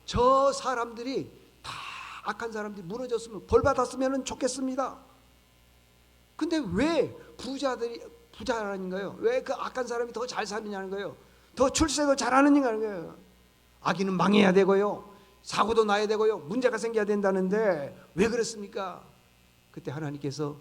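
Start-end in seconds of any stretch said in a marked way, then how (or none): 0.0-5.0 indignant prophet's plea. Acted. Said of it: "하박국 선지자는 그러는 겁니다". 6.4-19.1 acted indignant protest. Acting out the prophet's indignant protest.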